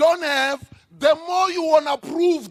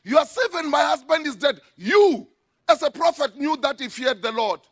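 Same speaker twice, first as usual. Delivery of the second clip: pleading widow; 4 dB louder than usual. Retold or imitated. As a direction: plead it as the grieving wife. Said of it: "So she said".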